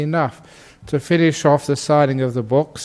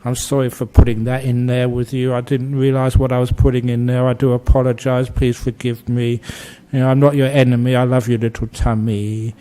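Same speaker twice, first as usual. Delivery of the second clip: tender to tummy; 3 semitones lower than usual. Retold or imitated. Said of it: "I give my little tummy some kindness".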